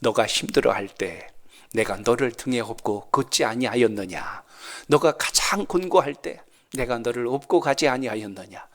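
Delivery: put-on God answering the weeping young man, low and gentle; voice of the Lord. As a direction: speak as the Lord, low and tender. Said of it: "주님이 이렇게 말씀해 주시는 거야".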